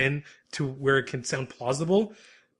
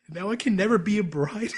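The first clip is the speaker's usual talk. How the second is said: higher-pitched, hammed-up lament; mock sobbing; 4 semitones higher than usual. Retelling Megu mourning the wedding dress, mock sobbing. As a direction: play-act a tearful complaint through amusement. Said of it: "he's sobbing".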